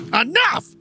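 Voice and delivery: sudden yell; shouting. Retold or imitated. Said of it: "Craig T. Nelson goes".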